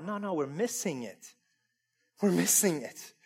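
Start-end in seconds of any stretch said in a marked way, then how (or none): none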